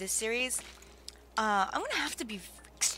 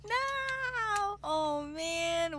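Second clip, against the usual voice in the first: tag; 7 semitones higher, much slower than usual. Real, not acted. Laments the death again.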